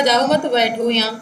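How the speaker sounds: जाओ मत run together, then a break before बैठो यहाँ; group "जाओ मत" as one phrase, pause, then "बैठो यहाँ"; pause after मत. Shown as a demonstration. Teacher showing students what was said, pausing after मत. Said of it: "उसने कहा".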